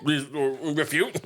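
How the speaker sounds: a badly faked presidential voice; terrible Obama. Mimicking a president's refutation, badly faked. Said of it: "This is a terrible Obama impression".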